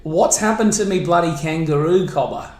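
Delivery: a broad Australian accent, lightly put on. Shown as a demonstration. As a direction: say it like an Aussie bloke. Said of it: "you can do an Australian accent".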